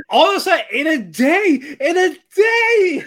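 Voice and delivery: high, loud disbelief with laughter; incredulous outburst. Real, not acted. Marvelling at rooms built in a day, loud and incredulous. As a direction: cry it out, cracking up in amazement.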